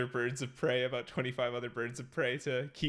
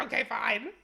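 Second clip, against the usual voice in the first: higher, laughing grudging agreement; mock grudging reply; 9 semitones higher than usual. Replying to partner about leaving the dog, mock grudging. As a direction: give in with a laugh. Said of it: "And I'm like".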